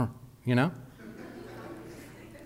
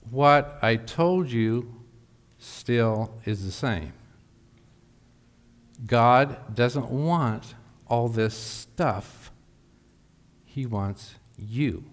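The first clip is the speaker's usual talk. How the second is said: slow earnest counsel; 2 semitones lower, much slower than usual. Retold or imitated. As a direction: lean in and say each word slowly. Pastor repeats counsel to Martha.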